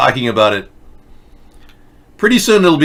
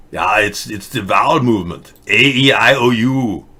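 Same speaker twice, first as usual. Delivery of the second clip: lightly mocked Germanic robot accent; Arnold Schwarzenegger. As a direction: pitch the show as a Germanic-accented robot host. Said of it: "That's just Arnold Schwarzenegger's inability to cope".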